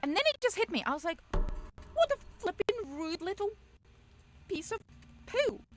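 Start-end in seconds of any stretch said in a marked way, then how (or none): 1.9-5.6 high, loud mock-indignant outburst; retold outrage. Storyteller reacts to rude shop worker, high retold outrage. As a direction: recount your fury, pitched way up, word by word. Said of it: "I was so pissed off at that".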